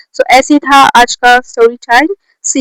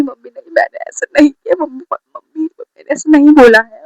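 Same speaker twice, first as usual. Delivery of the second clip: higher-pitched retold plea; pleading denial; 3 semitones higher than usual. Daughter being hit denies it to her mother, pleading. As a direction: protest to mum in a mock plea.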